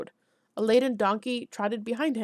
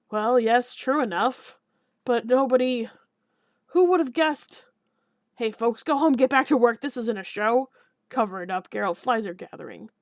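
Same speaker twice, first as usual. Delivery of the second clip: flustered alderman; 5 dB louder than usual. Acted. Alderman flustered, shooing crowd.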